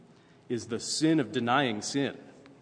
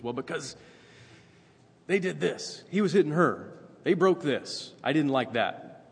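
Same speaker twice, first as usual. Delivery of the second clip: higher and louder, a mock worked-up excuse; hammed-up parent justifying the yelling; defensive parent; 5 semitones higher, 5 dB louder than usual. Parent defending yelling at the kids, higher and louder.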